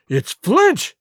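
high, loud frightened cry; pirate crying out in fright at the ghostly song; terrified cry. Acted. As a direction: blurt it out in sudden terror. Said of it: "cried Mary".

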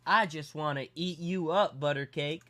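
lightly imitated flirty Southern woman, slow; creepy flirtation. Waitress coming on to a customer, mock creepy flirting. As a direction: draw it out like a creepy admirer. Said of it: "progressively got weirder and weirder".

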